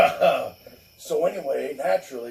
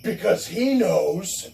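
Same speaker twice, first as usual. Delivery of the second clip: slow, weighty stern line; ominous dad; 5 semitones higher, slower than usual. Retold or imitated. Dad revealing the lawyer knows, slow and stern. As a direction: drop it like a verdict. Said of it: "And he was like".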